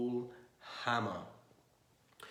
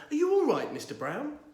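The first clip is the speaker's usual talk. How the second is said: called out loud and high into the box; calling out; 12 semitones higher, 7 dB louder than usual. A narrator's reading. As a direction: call out to the bear shut in the box. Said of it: "called out".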